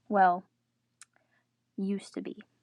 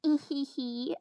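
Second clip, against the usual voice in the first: chuckle; 4 semitones higher, slower than usual. Acted. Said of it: "There was a chuckle".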